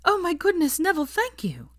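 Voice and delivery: very high, breathy whispered thanks; overjoyed gratitude. A narrator's reading. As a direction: gush thanks mid-hug. Hermione hugging him gratefully.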